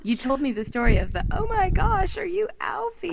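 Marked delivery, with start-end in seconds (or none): 1.3-3.1 high-pitched imitation of a starstruck fan; mock fangirl squeal. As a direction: squeal it in mock excitement, without shouting. Co-host re-enacts the fan's scream.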